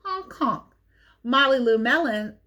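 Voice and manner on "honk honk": mock honk. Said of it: "You sound like a sick duck".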